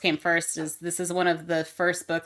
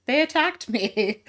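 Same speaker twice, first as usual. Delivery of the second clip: slow plaintive monster voice; whiny monster; 7 semitones higher, slower than usual. Retold or imitated. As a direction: whine like a wounded monster.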